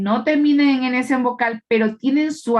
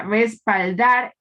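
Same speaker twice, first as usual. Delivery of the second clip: respaldar with the final "dar" stressed; stress on last syllable; much slower than usual. Shown as a demonstration. Teacher showing students where respaldar is stressed, stress on "dar". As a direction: say respaldar deliberately, voice weight on "dar". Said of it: "fijarnos dónde está la mayor fuerza de voz".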